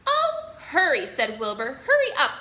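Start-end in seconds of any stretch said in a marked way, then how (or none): 0.1-1.1 urging. A narrator's reading. Wilbur urging the rat. 1.8-2.4 high, loud urging; urgent. A narrator's reading. Wilbur pushing Templeton to hurry, high and loud.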